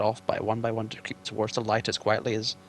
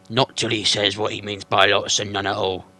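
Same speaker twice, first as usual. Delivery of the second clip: troll Bert; 6 dB louder than usual. Acted.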